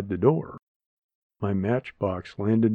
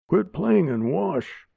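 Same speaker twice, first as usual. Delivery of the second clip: scolding; 5 semitones higher than usual. Acted. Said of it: "Aunt Linda scolded me".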